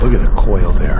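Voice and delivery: big excited call; loud exclamation. Real, not acted. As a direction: belt it out over the swing. Commentator exclaims at swing.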